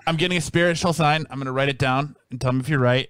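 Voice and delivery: fortune teller. Pretend. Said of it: "He's like".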